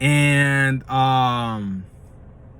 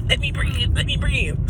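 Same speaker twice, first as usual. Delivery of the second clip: much higher strained pleading voice; shriveled body pleading; 11 semitones higher, slower than usual. Pretend. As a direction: squeeze out a plea for air, high and tight. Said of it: "It's like".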